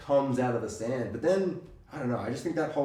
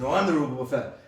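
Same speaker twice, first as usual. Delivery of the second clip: louder insistent answer; firm retort; 4 dB louder than usual. Retold or imitated. The rival insisting he is the real one, louder. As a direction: push back on the claim. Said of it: "And he's like".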